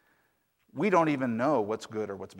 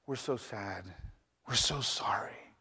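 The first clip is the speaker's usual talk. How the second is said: sad; 2 semitones lower, 7 dB quieter, slower than usual. Acted. Neighbors console over son's leg.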